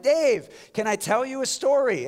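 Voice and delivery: retold yell across the room. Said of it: "Victor just yells across the room".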